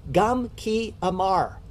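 slow Hebrew "Gam ki amar", each word spaced; Hebrew phrase said carefully. Shown as a demonstration. Teacher quoting Ruth's Hebrew, slow and careful. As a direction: spell out "Gam ki amar" slowly for the class. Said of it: "she adds to it with the words".

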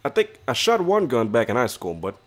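switching impression voices; steady Barack Obama impression. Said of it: "Wait, are you Obama?".

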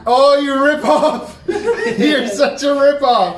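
loud, high, drawn-out laughing accusation; playful indignant holler; mock outrage. Real, not acted. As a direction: call it out loudly through laughter. Playful accusation over snake name.

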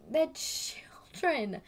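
slow, awed whisper. Real, not acted. Marvelling at the kids, slow hushed whisper. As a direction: breathe it out in disbelief. Amazed at the young singers.

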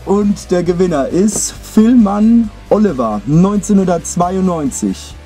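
excited, loud winner reveal; giveaway announcement. Real, not acted.

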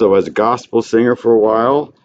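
rising through the list, biggest at the tornado; lightly voiced drifter boasting; misfit's boast. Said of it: "Annie says".

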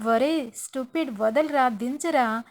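half-laughing put me down; playful protest. Retold or imitated. Wife spun around by her husband, mock scolding. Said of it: "అని చెప్పేసి అంటూ ఉంటుంది".

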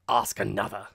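very loud, hilarious cry; screamed. A narrator's reading. Laughing girl screams at her friend's teasing. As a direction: shriek it out at the joke. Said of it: "screamed Hermy".

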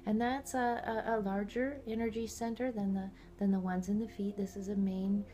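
calm guided meditation voice. Real, not acted. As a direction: guide the listener inward, unhurried.

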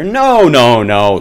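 high, emphatic doctor; third doctor. Acted. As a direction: overrule the others firmly. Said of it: "said a third".

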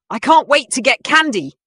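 put-on high, loud squealing kid; excited child. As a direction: burst out with eager glee. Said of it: "Stephanie exclaimed".

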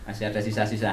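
chuckling through the words; laughing. Real, not acted. Jokes about Samsibar's lingering bloodline. (sambil tertawa kecil)

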